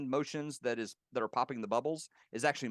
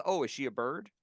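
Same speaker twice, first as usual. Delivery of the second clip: light, slightly raised Big Bird impression; a hint of Big Bird, sweetly asking; 4 semitones higher than usual. Retelling Carol's question about Robin, light Big Bird voice. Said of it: "went into the Big Bird voice".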